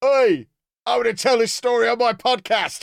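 loud, high-pitched mock yelling.

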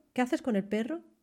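rising end, pitch climbs on perro. Demonstrating how a spanish question ends, rising end on perro. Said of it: "Se termina ascendente".

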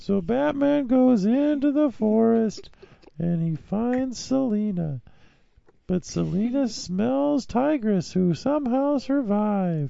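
acted cartoon character voice. Finishing a recap segment after being asked to: Strong Sad voice. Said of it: "finish this segment as Strong Sad".

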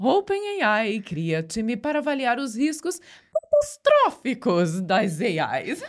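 put-on storybook witch voice. Urged by a co-host, reading a news headline in a witch voice. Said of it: "Catastrófico você tem que falar com voz de bruxa".

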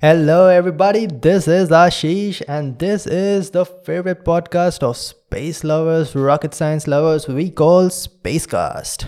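put-on radio presenter announcer voice. Podcast host opening a new episode of his show, in a radio announcer voice. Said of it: "I did my best to do the radio voice".

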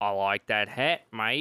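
fake Australian accent, slow and unhurried. Joking about accents, skipping to australia: put-on australian accent. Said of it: "Let's skip to Australia".

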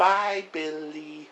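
cute put-on creature voice. Retelling a film scene, imitating Gizmo's cute goodbye. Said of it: "I can't do it".

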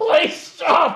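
high, loud, mocking pleading voice.

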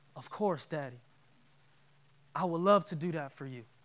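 very hushed, soft, loving, compassionate and tender voice. Acting out Jesus answering God's request without hesitation: loving and compassionate. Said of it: "without hesitation and love in his eyes and compassion in his heart".

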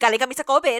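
mock curt, sharp, pointed, fired-back delivery. Retelling an answer to people who reply in a nasty tone: pointed comeback. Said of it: "answer me back in a nasty tone, I just go".

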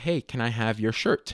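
ordinary delivery

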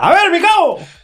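barked military-style shout. Acting out the commander again after being asked to shout: shouting as a commander. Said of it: "Otra vez grita, grita".

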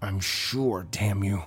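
whispered through clenched teeth. Narrator reads a man's reply to the lady, whispered through clenched teeth. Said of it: "David whispered through clenched teeth".

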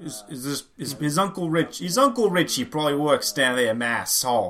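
poor fake Boston accent. Joking with a co-host about a player's uncle, in a bad boston accent. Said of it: "That's a bad Boston accent".

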